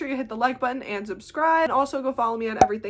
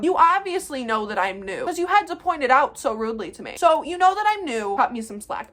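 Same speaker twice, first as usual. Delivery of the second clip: ranting; 3 semitones higher, 5 dB louder than usual. Real, not acted. Ranting at the customer.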